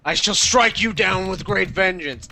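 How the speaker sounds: hammed-up old-timey challenge; mock archaic speech. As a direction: declaim like an old knight.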